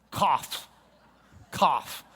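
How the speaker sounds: cough-like spoken Cough; mimed cough. Shown as a demonstration. Teacher showing the class how to remember Kaf, coughed word. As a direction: say Cough as if coughing, mouth wide open. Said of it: "that's the open mouth coughing".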